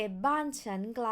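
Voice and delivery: ไกล said flat. Shown as a demonstration. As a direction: keep ไกล level. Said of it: "And if you say".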